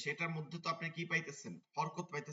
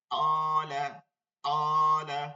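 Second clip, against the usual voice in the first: 1 loud recitation; 9 dB louder, much slower than usual. Shown as a demonstration. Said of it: "খালি আলিফ".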